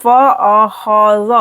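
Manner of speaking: फ़अख़ज़ as four short separate beats; even, short-vowelled फ़अख़ज़; short vowels. Shown as a demonstration. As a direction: keep each vowel of फ़अख़ज़ unstretched. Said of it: "जल्दी से पढ़ेंगे".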